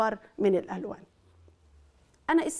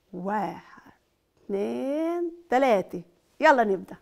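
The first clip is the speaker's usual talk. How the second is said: building countdown; 4 dB louder than usual. Acted. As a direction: count rising to a loud start. Counting off to start.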